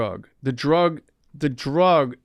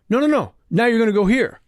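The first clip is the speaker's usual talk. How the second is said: much higher, louder imitation of the agent; mock agent; 9 semitones higher, 5 dB louder, faster than usual. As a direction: impersonate them springing the news. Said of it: "they held up a brochure".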